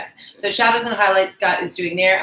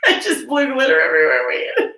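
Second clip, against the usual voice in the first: laughing cry; 5 semitones higher, 7 dB louder than usual. Real, not acted. Glitter spill, laughing cry.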